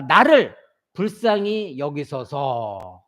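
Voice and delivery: begging for mercy, slowly and low; slow plea. Retold or imitated. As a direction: drag out the plea, low and pleading. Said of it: "이렇게 외쳤습니다".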